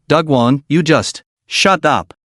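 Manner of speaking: tearful, slow plea; crying and pleading. Acted. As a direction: beg through light tears. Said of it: "crying and pleading".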